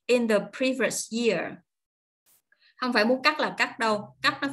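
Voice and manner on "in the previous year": "In the previous year" slow, set off by a pause; separate final chunk. Shown as a demonstration. Teacher finishing the chunked sentence, "In the previous year" said slowly. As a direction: start after a beat, slowly close on "year". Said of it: "ngưng một nhịp".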